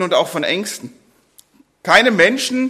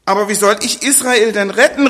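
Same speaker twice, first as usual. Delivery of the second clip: louder, higher doubting cry; Gideon cries out; 4 semitones higher, 5 dB louder, faster than usual. Acted. Gideon protests to the angel, crying out. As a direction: call out in protest. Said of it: "rief Gideon".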